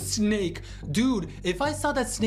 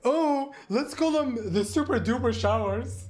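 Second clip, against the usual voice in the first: mocking sarcastic; 5 semitones higher than usual. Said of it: "That's the creative name".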